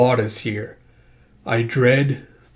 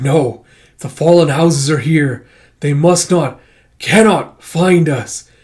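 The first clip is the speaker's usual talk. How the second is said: loud, alarmed insistence; slow down hard on the last words; freaking out; 3 semitones higher, 6 dB louder, slower than usual. Acted. Storyteller as character dreading the fallen houses, acted alarm. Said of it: "freaking out in whatever his language is".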